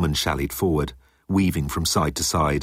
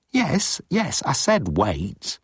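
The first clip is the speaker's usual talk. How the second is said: nervous admission; 7 semitones higher, much slower than usual. A narrator's reading. Moan admits his outburst to Jeltz, nervous. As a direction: yield reluctantly from a high start.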